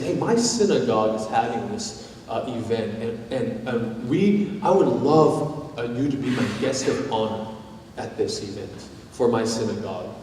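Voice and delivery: soft, low, halting ask; tentative invitation. Acted. Jewish neighbor inviting his friend to a synagogue event, hesitant and soft. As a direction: gently feel out a friend with a careful invite.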